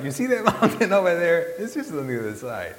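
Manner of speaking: loud, high villager voice; mock guide's stock answer, high then easing down; imitated villager. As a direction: belt it out high like a local guide. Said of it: "This is how they say it".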